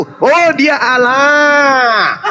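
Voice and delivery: long drawn-out, exaggerated exclamation; hammed-up slow revelation; mock realization. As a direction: stretch it out in sarcastic wonder. Mocking the opponent's conclusion.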